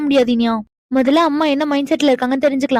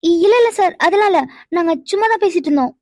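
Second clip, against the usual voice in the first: flustered stammering denial. Acted. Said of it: "உங்க பேச்சுல உள்ள தடுமாற்றத்திலே தெரியுது".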